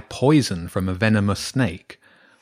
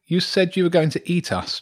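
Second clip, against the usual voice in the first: put-on higher-pitched, wary boy; suspicious; 8 semitones higher than usual. A narrator's reading. James challenging the badger who threatened to eat him, suspicious. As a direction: hold back, doubting the reassurance. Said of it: "James said suspiciously".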